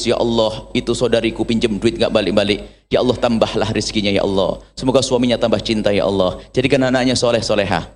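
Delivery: a touch of a low, humble prayer voice, mildly imitated; understated tearful plea to Allah, imitating; tearful night prayer. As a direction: lightly act out praying tearfully at night for the debtor. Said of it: "di malam hari menangis".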